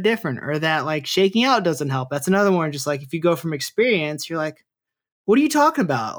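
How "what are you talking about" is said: high-pitched, baffled retort; imitated "you can't be serious" protest; mock incredulity. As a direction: act out a climber's disbelief, pitched way up. Voicing climber's disbelieving reaction.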